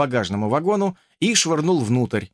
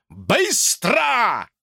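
high yelled command; yelled order; 10 semitones higher than usual. Acted. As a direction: yell it to hurry them. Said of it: "заорал Уилл Траут".

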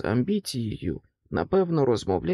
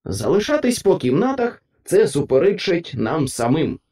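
higher, loud united reply; principles' chorus; 4 semitones higher, 6 dB louder than usual. A narrator's reading. Principles defy the king in chorus, loud. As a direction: answer back together, loud. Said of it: "хором відповіли принципи".

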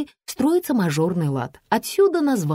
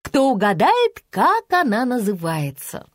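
proclaiming; 5 semitones higher than usual. A narrator's reading. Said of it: "провозгласила Лиза".

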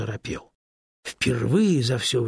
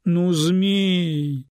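louder, higher hurt complaint; upset protest; 7 semitones higher, 6 dB louder than usual. A narrator's reading. Stone upset that the snake won't tell, loud hurt protest. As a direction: wail your disappointment. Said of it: "расстроился камень".

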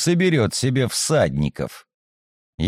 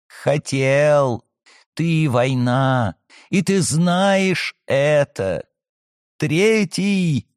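eerie prophetic voice; much slower than usual. Acted. Possessed girl accuses, slow.

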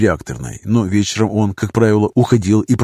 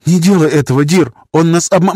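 urgent warning; 7 semitones higher, 4 dB louder than usual. A narrator's reading. Baroness cries warning, cut off.

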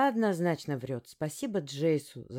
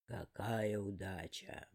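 commanding voice; 8 semitones lower, 11 dB quieter, slower than usual. Acted. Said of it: "Громкий властный голос".

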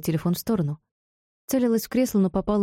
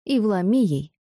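eager agreement; 4 semitones higher, slower than usual. Acted. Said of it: "охотно согласилась Дайон".

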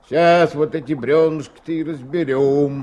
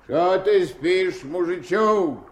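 teasing; 6 semitones higher, 3 dB louder, slower than usual. Acted. Raftsman teasing sleeping boy.

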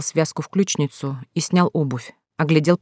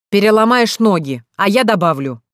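loud, higher angry growl; growled threat; 4 semitones higher, 4 dB louder than usual. Acted. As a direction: bark it back at the door. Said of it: "рыкнул Дамир". (громкий злой рык)

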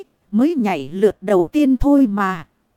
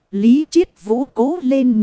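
cheering shout; 3 dB louder than usual. Acted. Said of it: "tôi lại hét to cổ vũ".

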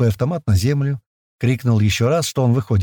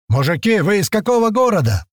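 shouting across the forest; 9 semitones higher than usual. A narrator's reading. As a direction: yell out to strangers far off. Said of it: "заорал тот на весь лес".

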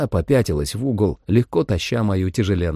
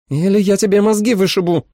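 threat; 12 semitones higher, 5 dB louder than usual. A narrator's reading. Holly threatening with gun.

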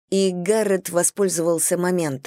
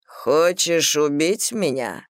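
put-on slow, cold, menacing old villain; icy voice; 2 semitones lower, slower than usual. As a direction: ask it slowly with cold menace. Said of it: "ледяным голосом".

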